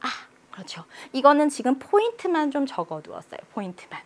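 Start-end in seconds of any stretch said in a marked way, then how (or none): 0.0-0.1 whispered, tiny "아"; hushed. Shown as a demonstration. Teacher hushing on the subway for the neutral tone, whispered. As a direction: kill the sound, keep "아" short and faint. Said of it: "소리 죽여".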